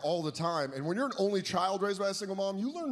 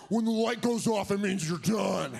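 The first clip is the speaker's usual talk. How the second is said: put-on a young kid's louder, booming voice; 3 semitones higher, 4 dB louder than usual. Little boy at cousin's party, booming out the pinball rule. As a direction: announce it like a little kid too loud. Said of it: "I had this voice".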